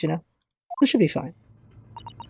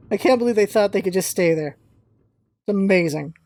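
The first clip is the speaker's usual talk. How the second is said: ordinary talk, nothing marked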